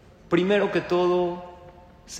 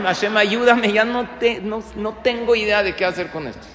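desperate prayer; 4 semitones higher, 4 dB louder than usual. Retold or imitated. Desperate father praying in story.

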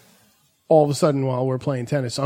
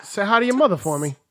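imitating bird lover; 6 semitones higher, faster than usual. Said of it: "she's like".

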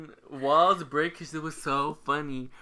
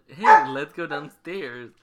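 calling out; 10 dB louder, slower than usual. Retold or imitated. Voicing the sister's call.

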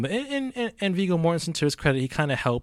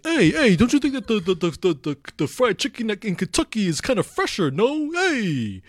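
much higher and louder, a hammed-up mobster-ish Italian-American guy; Tony Lip impression; 10 semitones higher, 4 dB louder than usual. Tony excited to find Kentucky Fried Chicken in Kentucky, loud and high mock voice. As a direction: gawk like a tourist thrilled by the chicken shack.

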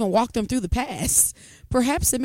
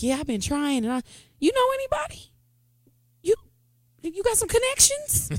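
high mock voice; 13 semitones higher than usual. Acting out a job-seeking plea.

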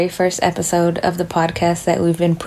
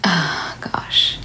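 whispered oh gosh. Real, not acted. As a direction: breathe it as a whisper. Nervous aside on first episode.

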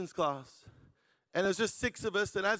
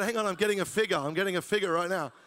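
a touch of a hammed-up prophetic voice; mock prophet; 3 semitones higher, 3 dB louder than usual. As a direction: pretend to receive a word from God.

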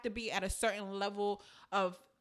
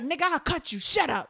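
mock threat; 6 semitones higher, 10 dB louder than usual. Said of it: "she's like".

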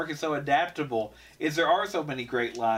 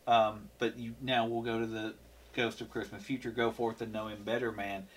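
dying ghost; 5 semitones lower, 6 dB quieter than usual. Retold or imitated. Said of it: "And he goes".

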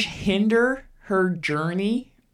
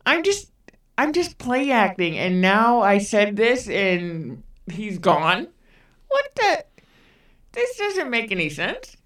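rising, much higher panicked confusion; freaked out; 3 semitones higher than usual. Retold or imitated. Imagining the baby vanished, half-mock panicked much higher voice. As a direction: squeak out the disbelief as it dawns. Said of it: "I would be kinda freaked out".

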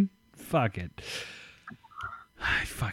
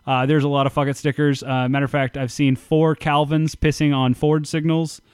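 live reporter on the scene, hand to ear; mock field reporter; 2 semitones higher, 4 dB louder than usual. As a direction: play a reporter calling in from the field. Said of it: "you got your hand to your ear and you're talking to the microphone".

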